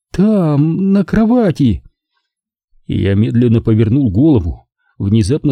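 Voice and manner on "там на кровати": высокий шипящий голос женщины; прошипеть сквозь зубы; hissing whisper. A narrator's reading. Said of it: "слова прозвучали с шипящим свистом". (шипящий свистящий шёпот)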